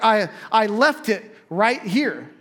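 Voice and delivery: acted exasperated insistence; insistent. Someone who knows where they left it, insistent.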